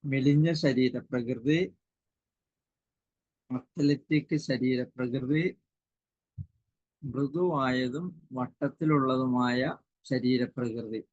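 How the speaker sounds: measured, slow dictation with pauses between items. Real, not acted. Teacher repeating list while students write, slow dictation. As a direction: read it out slowly for note-takers.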